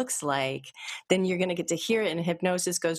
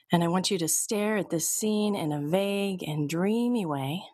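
calm, even hypnotist voice, unhurried pauses; steady guided-relaxation read; hypnosis induction. Acted. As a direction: lull them toward relaxation.

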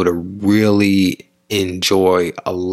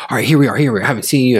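tag; 4 semitones higher, much faster than usual. Acted. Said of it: "you're excited or the other person excited".

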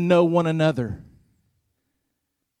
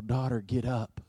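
gentle command; 4 semitones lower, 7 dB quieter than usual. Retold or imitated. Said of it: "he speaks to the girl".

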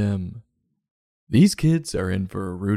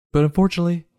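dramatic dismay; 9 semitones higher, much faster than usual. Acted. Sudden high dramatic turn.

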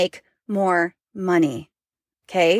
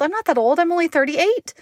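mock indignant; 8 semitones higher than usual. Mock protest about age.

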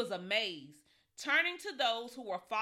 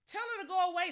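annoyed disciples; 10 semitones higher, 3 dB louder, faster than usual. Acted. Disciples urge Jesus.

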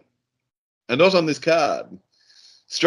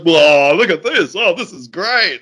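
mock excited gorilla; 2 semitones higher, 4 dB louder than usual. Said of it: "He's like".

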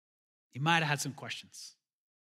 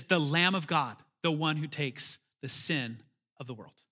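quiet awe. Acted. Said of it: "And he says".

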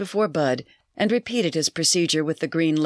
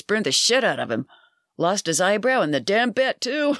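hint of a rowdy barfly spinning a yarn; brash barfly; 2 semitones higher than usual. Bud tells his barroom story.

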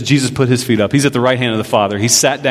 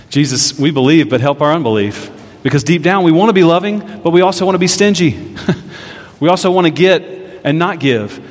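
closing prayer. Real, not acted. Pastor leads closing prayer.

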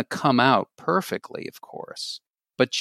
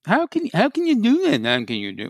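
mean inner voice; 8 semitones higher than usual. Shown as a demonstration. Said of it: "well, that's a little mean".

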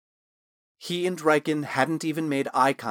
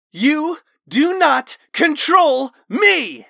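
much higher, loud, very slow shout; furious shout; 9 dB louder, much slower than usual. Acted. Talon overpowering the voice in his mind, roaring. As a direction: roar each word at it.

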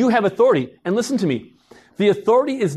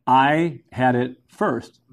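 slow, lower mock-child claim; child's claim; 4 semitones lower, much slower than usual. Kid claims the one toy from another, slow insistent claim. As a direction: draw out each word like a possessive kid.

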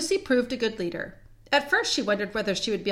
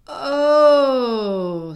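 loud, higher, long-drawn gasp of surprise; sudden surprise; 5 semitones higher, 10 dB louder than usual. Acted. Susan suddenly discovers a tree behind her, startled. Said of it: "said Susan suddenly".

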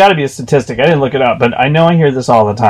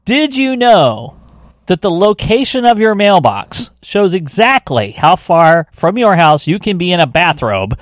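slow dramatic; 4 semitones higher, slower than usual. Acted. Slow dramatic joke setup.

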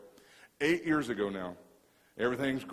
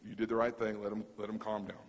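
reassuring; 5 semitones lower, 5 dB quieter than usual. Retold or imitated. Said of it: "God just says".

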